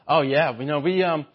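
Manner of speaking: lightly voiced snooty mom, condescending; a hint of a boat-club mom showing off; bragging rich mom. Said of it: "wealthy mom ... bragging to other moms".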